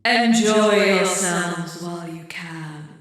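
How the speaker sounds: slow, low ominous witch. Acted. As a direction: menace them slowly like a witch. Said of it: "This is a witch noise".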